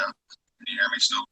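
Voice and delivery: muffled slow phone voice; muffled phone mic. Real, not acted. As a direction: ask it slowly through a muffled mic. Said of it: "It's just muffled".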